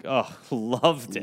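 slow drawn-out gush. Acted. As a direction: stretch it out, overly delighted. Drawn-out mock gushing.

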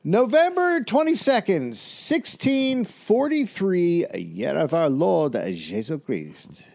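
hammed-up French accent opening a story; mock French accent. Cohost asked for his French accent, mock French accent. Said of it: "I don't know if it's your French accent".

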